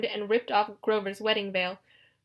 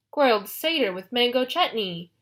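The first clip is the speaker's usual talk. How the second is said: musing; 2 semitones higher than usual. Acted. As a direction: roll the dish around your tongue. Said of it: "Polyphemus mused".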